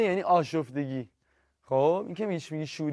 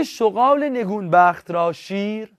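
poem reading; 4 semitones higher, 6 dB louder, slower than usual. Acted. Reads a line of verse.

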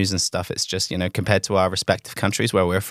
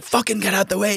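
mock angry driver; 9 semitones higher than usual. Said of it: "it's like".

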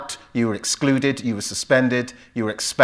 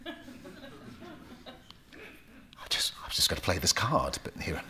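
whispered laugh; 8 semitones higher, 13 dB quieter than usual. Real, not acted. Laughing aside at the question.

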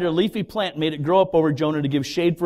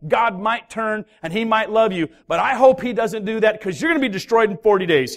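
ranting prophet; 4 semitones higher than usual. Acted. Preacher voices Jonah's doom message.

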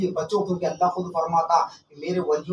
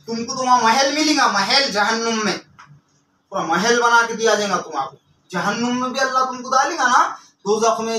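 raised, scornful pulpit warning; fervent preaching; 5 semitones higher, 5 dB louder than usual. Real, not acted. Preacher telling sorcery users of their palace in hell, fervent. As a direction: drive the threat home to the wrongdoers.

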